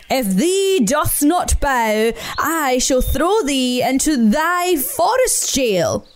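slow, grand mock-archaic decree; pompous Badger. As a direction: threaten in a lordly, slow way. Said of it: "shouted Badger".

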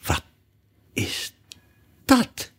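halting, disgusted question; each word set apart by a long pause; deep disgust. A narrator's reading. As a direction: recoil word by word in distaste. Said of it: "met een uitdrukking van de diepste weerzin".

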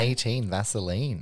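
calling it like a bingo number; bingo caller. Pretend. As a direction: sing out the bingo call. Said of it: "one of my bingo calls now".

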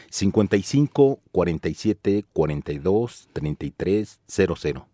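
phone number slowed down, group by group; measured dictation pace with small gaps between number groups; slow and careful. Shown as a demonstration. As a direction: say it slowly, leaving time to write it down. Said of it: "Lo voy a decir despacito".

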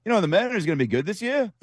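put-on high, quick Australian accent; Ryan Rowland-Smith accent. Host mimicking the Australian broadcaster's accent, high and fast. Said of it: "was that the accent".

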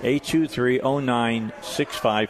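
slow, spaced digits for callers; slow repeated number. Real, not acted. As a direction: spell the number out slowly. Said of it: "number repeated slowly".

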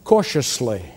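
"Cautiously" said low and soft, with weight; stressed cautiously. Shown as a demonstration. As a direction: land softly and carefully on "Cautiously". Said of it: "Emphasis on cautiously".

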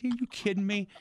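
mock disbelief. Batter scoffing at the catcher's no-hitter chant, in mock disbelief. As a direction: act shocked at her taunt, a bit hammed up.

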